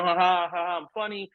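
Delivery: spoken fake ha-ha, lightly mocking; mock joking laugh. Consultant retelling how jokes went wrong, mock joking laugh. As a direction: imitate a joker with a hammed-up laugh.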